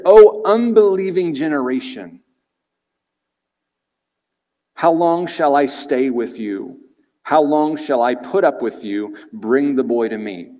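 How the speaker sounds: stern rebuke, slow on the questions; exasperated Jesus rebuking the disciples; chastising rebuke. Retold or imitated. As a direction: scold the faithless crowd. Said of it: "He chastises him".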